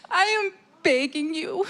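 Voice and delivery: begging through tears, voice close to crying; tearful plea. Real, not acted. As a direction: plead with them, on the edge of tears. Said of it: "I'm really emotional".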